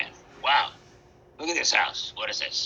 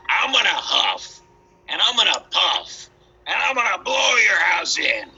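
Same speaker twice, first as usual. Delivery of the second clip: wolf's threat; 4 semitones higher than usual. Acted. Wolf threatens the stick house.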